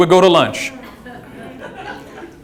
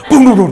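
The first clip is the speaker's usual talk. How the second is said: imitated earthquake rumble; 2 semitones higher, 3 dB louder, faster than usual. Comedian mimics the earthquake shaking the house, booming rumble. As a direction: boom out the quake's rumble.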